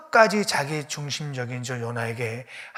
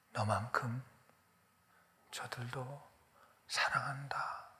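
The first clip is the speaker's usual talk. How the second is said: tender whisper. Acted. God telling Jonah he loves Nineveh, tender whisper.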